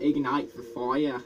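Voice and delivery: slow British accent on the phrase; own British accent. Shown as a demonstration. Showing friend the better accent, slow British accent. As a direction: say it slowly, properly British. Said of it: "my accent is better than yours".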